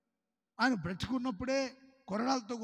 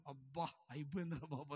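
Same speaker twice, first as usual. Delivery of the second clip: put-on sleepy child's sigh of relief; 6 semitones lower, 12 dB quieter than usual. Child's relief as film ends.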